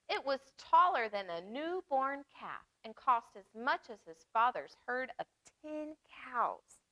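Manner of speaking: lively storybook reading voice; reading to children. Acted. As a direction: read it warmly to little listeners. Reads picture book aloud.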